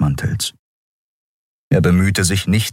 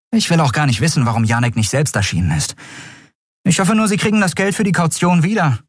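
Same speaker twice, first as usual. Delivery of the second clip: higher and fast, curt goodbye; impatient young woman; 9 semitones higher, faster than usual. Acted. Endriel cuts the talk short, impatient. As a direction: brush him off quickly.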